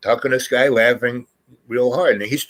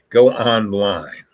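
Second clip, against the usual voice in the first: laughing; 3 dB louder, much slower than usual. Retold or imitated. Mocking the slip of paper.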